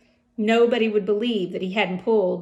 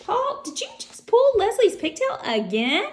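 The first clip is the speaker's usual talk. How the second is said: stern teacher; 13 semitones higher, 4 dB louder than usual. Acted. Teacher scolds Paul.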